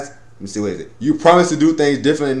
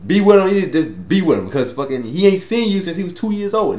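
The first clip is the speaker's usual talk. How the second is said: outraged; 6 semitones higher than usual. Retold or imitated. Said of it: "They was like".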